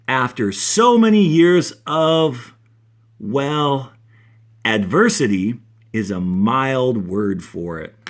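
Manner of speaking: slow, expressive read-aloud for the class; story reading. A narrator's reading. Teacher reads a science fiction excerpt to her class, expressive storytelling.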